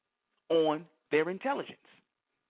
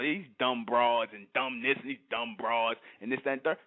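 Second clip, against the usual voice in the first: mock thug quote; 6 semitones lower than usual. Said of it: "You ever heard these, even the thugged out niggas".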